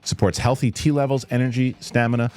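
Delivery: ad read. Acted. Sponsor read over music.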